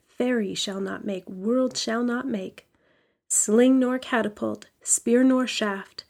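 measured, solemn recited invocation; incantation reading. Acted. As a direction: read it like a blessing over her. Reads a protective incantation.

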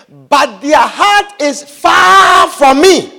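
loud. Acted. Preacher's climactic scripture line.

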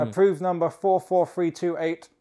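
flat robot voice reading numbers. Pretend. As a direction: read it like a robot. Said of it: "Now you just sound like a robot".

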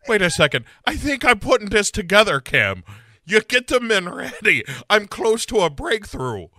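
hammed-up detective having a breakthrough; Sarah. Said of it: "Sarah's like".

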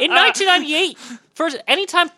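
laughing through the words. Real, not acted. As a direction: speak while laughing. Laughing at own joke.

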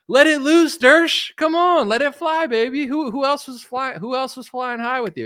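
egging on. Real, not acted. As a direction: cheer him on to spill everything. Egging Dershowitz on to spill.

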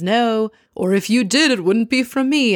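a smug husband's joke; imitating Simon. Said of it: "And he says".

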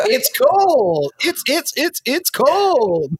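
high, broken by laughter; laughing hard. Real, not acted. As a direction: choke the words out laughing. Laughing repeat of joke.

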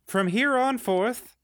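town crier decree. Acted. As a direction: read the decree like a herald. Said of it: "I present this word from the Chancellor".

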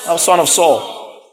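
Jesus called out high, then dropping; imitated shout. Preacher imagining a beggar calling to Jesus, mock shout. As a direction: cry it out like a beggar at the road. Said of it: "when he should have been shouting".

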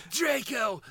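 a hint of Fierstein calling Draco; mock dark lord summons, fading off; Voldemort as Harvey Fierstein. Host imitates Voldemort summoning Draco. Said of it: "the worst".

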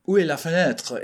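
put-on lightly mangled French with a Texan accent. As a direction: try French as a Texan would speak it. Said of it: "figure out what that sounds like".

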